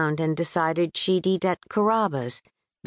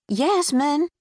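calling out; 9 semitones higher than usual. Acted. Calling across the airport.

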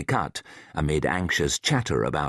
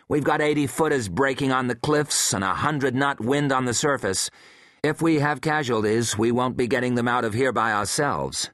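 lightly voiced woman, worried; tense woman reporting bad news; female scientist voice; 5 semitones higher than usual. Hensley voiced by narrator.

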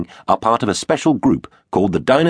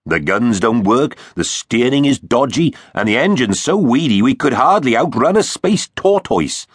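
a grumbling Arx, a touch higher; lightly voiced triceratops Arx; 5 semitones higher than usual. Arx the triceratops grumbles to Tex about the rusty ship, mildly exasperated. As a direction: moan about the weedy engine, half amused.

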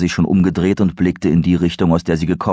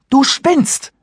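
sharp, much higher angry retort; 4 dB louder than usual. Acted. Serenity snaps angrily at Christopher. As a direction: snap it at him in anger. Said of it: "erklärte Serenity wütend".

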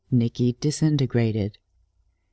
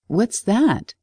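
surprised; 7 semitones higher than usual. Acted. Girl startled by boyfriend choking.

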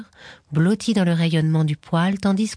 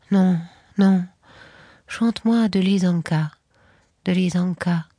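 put-on drunken insistence; 3 semitones higher than usual. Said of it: "avec son obstination d'ivrogne".

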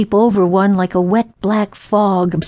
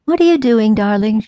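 mother calling casually; 3 semitones higher than usual. Retold or imitated. Mother calling to her little girl under the lamppost, light and casual. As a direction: call out easily, like a mother unconcerned. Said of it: "she called casually".

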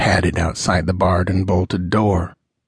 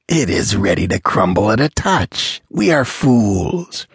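sardonic. Acted. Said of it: "sardonic laugh".

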